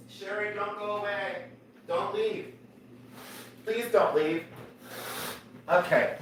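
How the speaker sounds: high, faint, helpless voice; losing control with laughter. Real, not acted. Teasing a chat friend who called her elderly, losing control with laughter. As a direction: squeak it out softly through a fit of laughter. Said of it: "I'm under control now".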